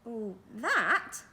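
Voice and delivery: a cheery magician shrugging it off; cheerily. Acted. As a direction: brush it off cheerily. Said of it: "said Mister Majika cheerily".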